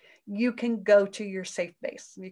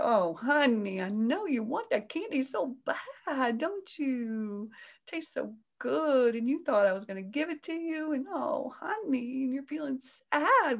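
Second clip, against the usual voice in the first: soothing mom; 4 semitones higher than usual. Retold or imitated. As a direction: gently soothe a child who wanted candy. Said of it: "I can go".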